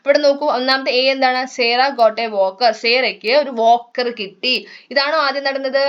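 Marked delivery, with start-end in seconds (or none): 1.6-2.7 slow, careful textbook reading; reading aloud. Shown as a demonstration. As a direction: read each word out slowly for the class. Teacher reads textbook English slowly.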